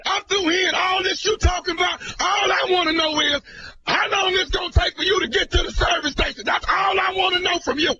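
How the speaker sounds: yelling a challenge; angry shout. Acted. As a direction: shout him down, fed up. Prank caller demanding a fight.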